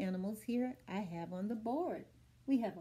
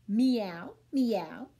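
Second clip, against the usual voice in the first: meow; 3 semitones lower, 3 dB louder than usual. Shown as a demonstration. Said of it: "The cat says".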